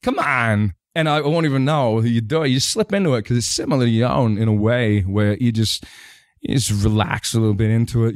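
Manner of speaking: halting, oddly phrased film-star impression; Christopher Walken. Shown as a demonstration. Voice actor on arguing with his wife, Walken impression. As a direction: relax into the famous actor's cadence. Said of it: "it becomes Christopher Walken".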